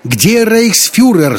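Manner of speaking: slow, very high loud wail; drawn-out, high screeching demand; yelling. A narrator's reading. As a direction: wail the demand like a quarrelsome heckler. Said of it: "завопила известная своей склочностью".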